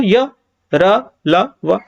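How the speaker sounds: य, र, ल, व each with little air; little breath. Shown as a demonstration. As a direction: say य, र, ल, व one by one without a puff. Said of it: "देखो कम हवा निकलेगी".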